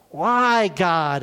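a mild mock wail at heaven; man watching his cabin burn cries out to God; crying out. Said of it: "And he cries out".

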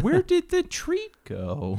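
very high, slow puzzled pup; high dog voice. Pretend. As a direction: squeak it out as a confused dog.

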